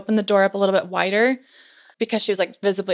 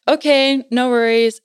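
nervous missionaries; 5 semitones higher, 7 dB louder than usual. Retold or imitated. Missionaries backing off politely.

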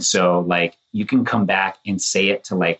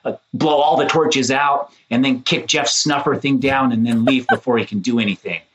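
high, excited boasting; defiant bravado; 6 semitones higher than usual. Retold or imitated. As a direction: pitch it up and brag. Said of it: "I was like".

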